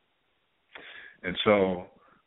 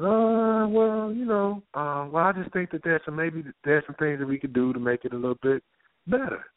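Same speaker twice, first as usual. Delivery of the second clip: hesitant woman; 6 semitones higher than usual. Retold or imitated. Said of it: "And she says".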